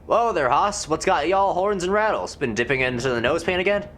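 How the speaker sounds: mild hammed-up Old West cowboy. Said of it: "Gabby doesn't talk like that".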